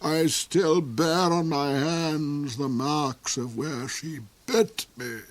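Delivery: soar up high and gloat over her; the Duke's high voice. Acted.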